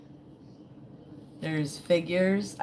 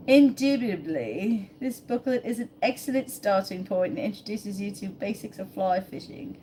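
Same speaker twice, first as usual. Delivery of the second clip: put-on posh British accent; 2 semitones higher than usual. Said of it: "I don't know what accent that was".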